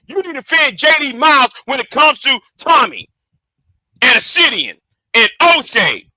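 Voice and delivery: real frustrated shout; angry shout. Real, not acted. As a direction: yell the demand at him. Heated rant at a commenter.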